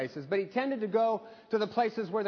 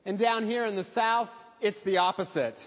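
lightly put-on Southern accent, friendly and teasing; thick Southern accent. Pastor retelling a Southern host's teasing reply, light Southern accent. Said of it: "in this thick Southern accent".

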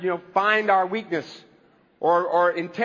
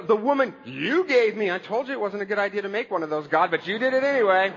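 raised, accusing outburst at God; Adam blaming God. Retold or imitated. Adam accusing God over the woman, raised mock outburst. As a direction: throw the blame back at God, half shouting. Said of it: "And then he blames God".

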